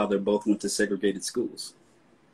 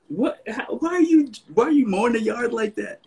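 much higher, hammed-up baffled question; puzzled grandchild; 13 semitones higher than usual. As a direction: play the bewildered kid watching grandpa. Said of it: "and I'm like".

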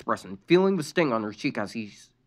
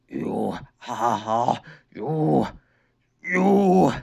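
angry yell; much slower than usual. A narrator's reading. Injured boy yelling at his sister, building anger. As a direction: snarl then yell at her. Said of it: "Lincoln yelled in an angry manner".

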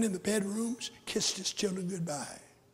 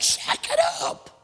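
loud ironic go-ahead; preacher loudly urging his cousin on with irony; mock encouragement; 12 semitones higher, 12 dB louder than usual. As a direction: egg him on, half mocking. Preacher mocking cousin's riches.

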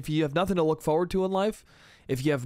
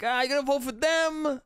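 higher, teasing disbelief at the choice; dad's doubtful jab; 10 semitones higher than usual. Retold or imitated. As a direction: needle the son over his vote. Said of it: "And he was like".

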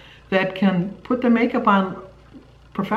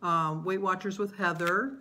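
softer, hurried list reading; quiet rushed; 12 dB quieter than usual. Real, not acted. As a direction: murmur it quickly off to the side. Hurried quiet add-on message.

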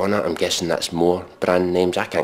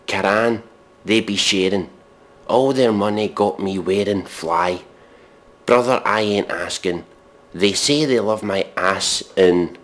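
deadpan lyric reading. Retold or imitated. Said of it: "Here's the next verse or chorus".

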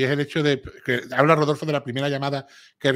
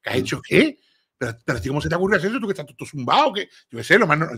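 mock outrage. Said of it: "No, no".

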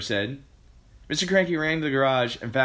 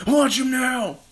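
high, loud shout; excited cry; 7 dB louder, slower than usual. A narrator's reading. Mister Cranky watching the bird, excited cry. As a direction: call out in eager anticipation. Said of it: "cried Mister Mister Cranky".

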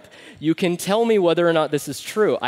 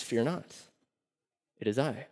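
calm and soft; 3 semitones lower, 9 dB quieter than usual. Retold or imitated. Jesus calming panicked disciples.

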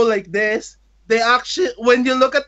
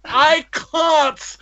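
higher, thickly accented English imitation; 5 semitones higher than usual. Idol replying in English, imitated thick accent. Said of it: "said in very thick accent".

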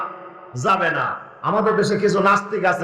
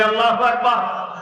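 louder takbir call. Shown as a demonstration. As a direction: lift the call to rouse the congregation. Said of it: "আরো জোরে বলি". (আরো জোরে, উঁচু সুরে তাকবির ধ্বনি)

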